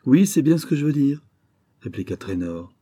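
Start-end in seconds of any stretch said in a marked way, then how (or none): 0.0-1.2 swaggering. Acted. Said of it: "Ses fanfaronnades".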